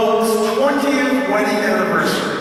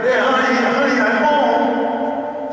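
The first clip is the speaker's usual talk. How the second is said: higher, drawn-out second call, slowed down; husband calls a second time, slower and more insistent; calling again; 4 semitones higher, slower than usual. Pretend. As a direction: stretch it out, coaxing an answer from the silent kitchen. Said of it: "So he says it again".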